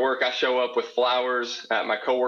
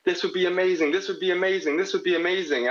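excited coworkers; 6 semitones higher than usual. Retold or imitated. Coworkers' hype quoted.

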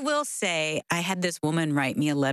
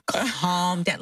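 drawn-out, slow "calm down"; imitated calming down. Host imitating her husband telling her to settle, slow mock soothing. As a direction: stretch it out like a patronising husband. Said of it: "Dave has done that to me too".

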